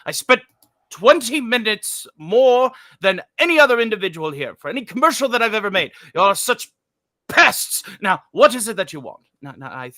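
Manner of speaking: lightly voiced booming Welles, grumbling at the director; a hint of a pompous old actor refusing the script; Orson Welles impression. Welles arguing with the ad director in a mild put-on growl. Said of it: "A little, a little Orson".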